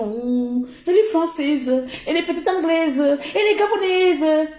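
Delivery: high, sing-song mocking gossip. The vlogger mimicking people marveling at her nationalities, high mock. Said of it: "avec mon accent là".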